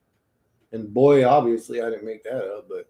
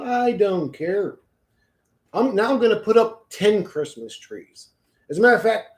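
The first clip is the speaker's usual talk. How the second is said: raised, defiant ranting voice; 5 semitones higher than usual. Pretend. Another voice insisting on Christmas trees, raised and defiant. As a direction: rant in stubborn defiance.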